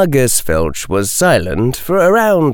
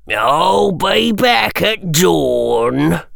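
slow, higher, gloating caretaker voice; spiteful old caretaker; 7 semitones higher, much slower than usual. A narrator's reading. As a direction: savour the threat like a mean old caretaker. Caretaker leaving.

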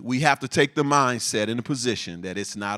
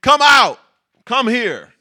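mock yell, much higher and louder; king yelling; 9 semitones higher, 11 dB louder than usual. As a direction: bellow the order like an angry king. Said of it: "Now he's yelling, he's shouting".

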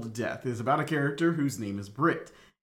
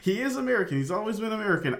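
emphatic insistence; 8 semitones higher, much faster than usual. Real, not acted. Repeating the correction for emphasis.

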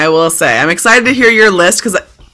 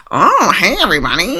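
sick voice; 3 dB quieter than usual. Shown as a demonstration. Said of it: "I unfortunately don't have a very sultry sick voice".

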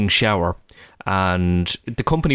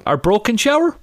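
imitating toddler; 11 semitones higher than usual. Voicing his toddler son.

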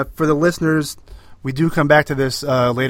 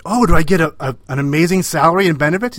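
quick, louder mock-eager question; lightly put-on teacher voice, raised in pitch; 4 semitones higher, 5 dB louder, faster than usual. Retelling a comedian's bit on public school teachers, mock teacher voice. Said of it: "like, teacher voice".

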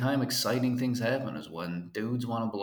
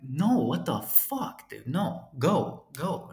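shooing him off; 3 semitones higher, much slower than usual. Retold or imitated. Shooing the stranger away.

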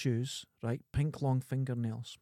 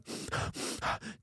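hyperventilating breath; 9 dB quieter than usual. Retold or imitated. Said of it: "starts hyperventilating".

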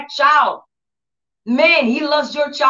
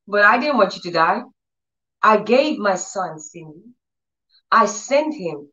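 God speaking tenderly; 3 semitones lower than usual. Retold or imitated. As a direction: gently imitate God's patient reassurance, phrase by phrase. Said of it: "So they would talk to me like that".

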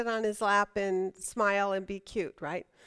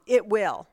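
firm, settled stress on "It will"; "It will", stated emphatically with falling close; emphatic statement. Shown as a demonstration. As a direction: land "It will" as a certainty. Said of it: "It's an a-, emphatic".

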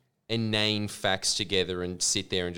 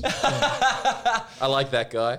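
laughing; 8 semitones higher, 4 dB louder, much slower than usual. Real, not acted. Laughing after the impression.

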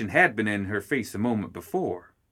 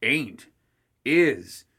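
squabbling; 4 semitones higher than usual. Acted. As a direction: snap it back like squabbling kids. Childish back-and-forth bickering.

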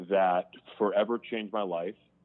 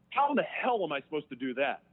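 indignant, raised-pitch protest; retold exasperated comeback; angry retort; 5 semitones higher than usual. Inmate arguing back at God about forgiveness, angry. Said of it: "I get pissed off".

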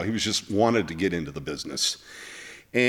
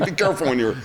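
laughing; 6 semitones higher, much faster than usual. Real, not acted. Host continues the joke.

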